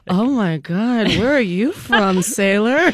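slow, drawn-out come-on, lightly hammed up; mock flirting. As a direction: play smitten by an exotic accent. Acts out swooning over an accent.

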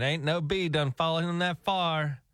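slow, light Southern drawl; mock Southern drawl. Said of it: "his dad saying".

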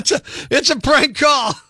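bursting into laughter after the reveal; prank reveal laughing. Real, not acted. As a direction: laugh as the joke comes out. Caller reveals the prank call.

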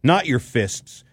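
upbeat sports app ad read; punchy promo voice pitching the app. Acted. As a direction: sell it like a radio spot. Reads an app ad.

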